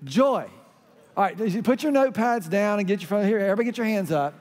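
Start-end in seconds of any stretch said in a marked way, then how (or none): 0.0-0.5 a short punchy shout of Joy; called out joy. Shown as a demonstration. Pastor leading the congregation, a punchy call of joy. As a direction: make some noise on Joy. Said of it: "So you gotta go".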